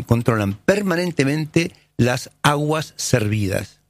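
slow, weighty stress on "permanentemente"; emphatic, slowed. Real, not acted. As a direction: lean hard on "permanentemente", drawing it out. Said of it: "escuchen bien". (recalcando "permanentemente", despacio)

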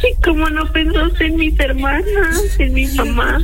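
daughter scolding her father while crying, tearful and slow; tearful reproach. Acted. Daughter confronting her cheating father.

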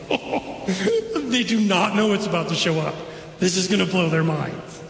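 acted delighted giggle going into speech; giggling in delight. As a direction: play it tickled, with a little laugh first. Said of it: "maybe even kind of giggling in delight".

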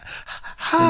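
high, airy mock puff of breath; breathy "ha". Co-host acting out going back home to the cold, breathy huff.

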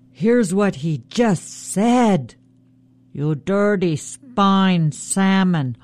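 slow, relishing trickster taunt; sly Raven. Acted. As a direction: drag out the insult as Raven.

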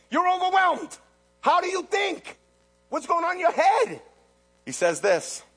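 ordinary talk, nothing marked

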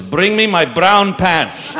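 deadpan the order while cracking up; captain. Acted. Captain orders his brown pants, slowly and laughing. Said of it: "Captain goes".

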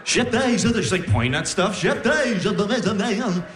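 repeating garble, pitched a bit high; mock stuttering sleep babble; backwards record gibberish. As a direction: loop it like a record played backwards. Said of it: "Sounds like you're turning a record backwards".

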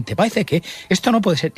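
mock-outraged regional grandmother; scolding grandmother. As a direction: echo a village grandma's reproach. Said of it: "Esas expresiones de, de mi tierra".

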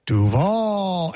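Duval swooping down and up like a U; U-shaped Duval. Retold or imitated. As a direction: imitate Duval with a long curved VAL. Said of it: "like he was skating in a".

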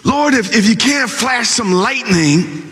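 a lightly voiced aggrieved prayer; complaint poured out to the Lord; complaining prophet. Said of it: "he began to complain".

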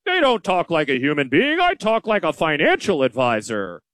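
lightly voiced smug know-it-all; a hint of a pompous advisor showing off; mildly mocking a self-satisfied blowhard; arrogant blowhard. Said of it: "arrogant blowhard who's just like".

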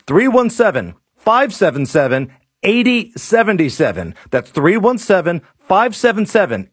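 practised sponsor pitch; radio ad read. Acted. Host urging listeners to call the heating company, ad read.

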